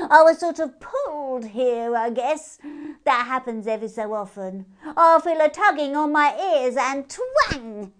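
high, loud and bouncy; chatty hare. A narrator's reading. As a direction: tell it like a grand adventure.

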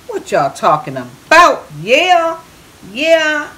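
high, loud whoops of yeah; excited. Real, not acted. Cook hyping up viewers over the dish, excited. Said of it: "I'm getting so excited over here".

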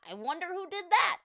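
high, wondering question; puzzled fan. A narrator's reading. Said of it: "asked another fan".

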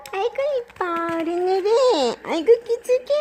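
talking to a dog. Real, not acted. Cooing over the pet dog.

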